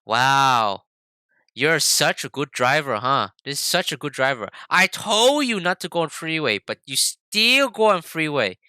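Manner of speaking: mildly mocking praise turning to scolding; sarcastic mom. Mom nagging throughout the whole process, sarcastic. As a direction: imitate a parent's pointed fake compliment, then reproach. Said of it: "Like, sarcastically".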